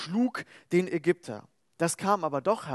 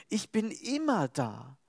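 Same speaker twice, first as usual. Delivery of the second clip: calm assurance; 4 dB quieter, slower than usual. Acted. God's promise again.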